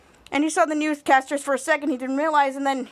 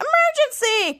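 shouted emergency; 10 semitones higher than usual. Retold or imitated. All shouting at once.

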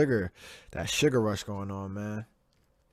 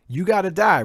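angry peak; 7 semitones higher, 7 dB louder than usual. Real, not acted. Building rant, peak.

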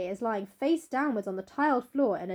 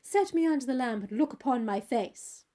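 touch of triumph; 3 semitones higher than usual. Acted. Dorian tells the brother to look, triumphant. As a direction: exclaim it theatrically, sure of winning. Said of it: "laughed Dorian Gray with a touch of triumph in his voice".

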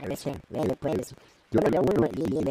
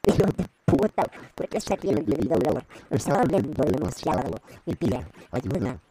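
robot voice. Acted. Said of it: "Voz de robot".

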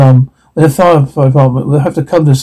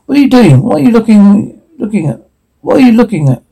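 panicked; 5 semitones higher than usual. Acted. Panicked friends trapped by killer.

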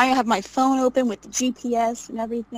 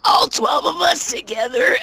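panicked cry; 5 semitones higher than usual. Retold or imitated. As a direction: wail it out in panic, half laughing. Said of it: "But it sounded more like".

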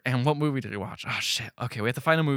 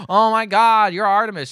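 louder, higher gushing recognition; mock excitement; 7 semitones higher, 7 dB louder than usual. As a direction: gush like a starstruck fan. Quoting the lady's reaction.

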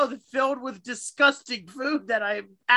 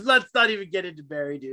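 excited outburst; 5 semitones lower, faster than usual. Real, not acted. Excited protest about Barry.

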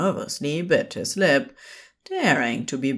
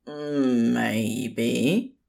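hopeful; 5 semitones lower than usual. A narrator's reading. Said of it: "the man shot back hopefully".

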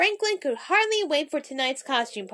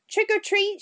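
playful shout; 7 semitones higher than usual. Acted. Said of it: "shouted Mister Mole".

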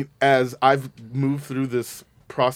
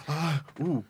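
louder, higher sassy cheering; sassy diva cheer; 5 semitones higher, 5 dB louder than usual. Retold or imitated. Host reliving watching My Fair Lady, cheering Haley on sassily. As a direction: cheer her on like a diva from the seats. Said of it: "and I was like".

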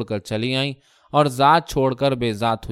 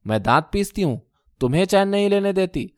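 a stung wife snapping back; a touch of shrillness; sharp retort. Acted. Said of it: "تیز آواز میں بولی".

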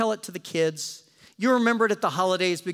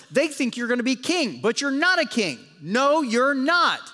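mocking Romans; 5 semitones higher than usual. Roman soldiers taunting Jesus, a sneering higher mock.

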